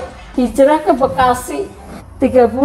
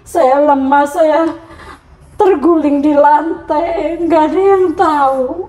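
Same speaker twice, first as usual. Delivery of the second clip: much higher, slow, tear-filled voice; real crying; 4 semitones higher than usual. Real, not acted. Woman telling the interviewer how she collapsed, crying. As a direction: keep telling it through real tears.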